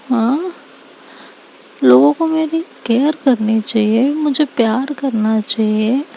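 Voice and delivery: hurt-but-joking protest; teasing Seerat. Acted. Seerat to scolding Anika, playful mock complaint.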